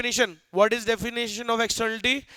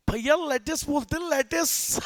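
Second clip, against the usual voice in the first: mocking show-off wife; 5 semitones higher than usual. Wife corrects him, showing off.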